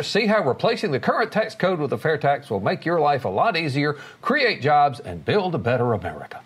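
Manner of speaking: announcer pitch for a cause; radio ad voice. Shown as a demonstration. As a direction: sell it like a radio spot. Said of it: "my radio voice".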